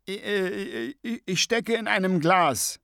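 frantic high-pitched head in a jar; flustered stammering Scapegrace. A narrator's reading. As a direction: stumble urgently through the directions. Scapegrace stammers his predicament.

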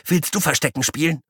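high eager squeak; squeaky guinea pig. Acted. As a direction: chirp it like a tiny pest.

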